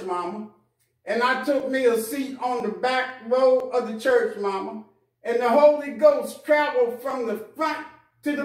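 fervent testimony. Acted. Prodigal son testifies to mother.

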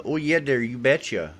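lightly put-on Northern US accent; a touch of folksy Northern accent.

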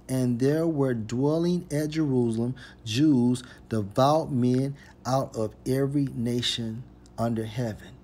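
emphatic reread, easing off at the end; scripture reading. Acted. Preacher rereading a verse for listeners, emphatic scripture reading. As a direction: read the verse out firmly, then settle.

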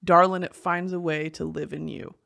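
low transatlantic movie-star recital; a singer's lyrics. Acted. Reading a singer's lyrics as fifties star, transatlantic accent. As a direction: read it like a fifties transatlantic actor. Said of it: "nineteen fifties transatlantic movie star".

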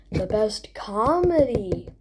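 slow, drawn-out announcer build-up; award announcer. Acted. Vlogger presenting best comedy award to viewers, award announcer. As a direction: stretch each phrase for suspense.

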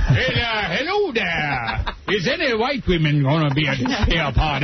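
Magic Johnson impression. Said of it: "Doesn't sound like Magic".

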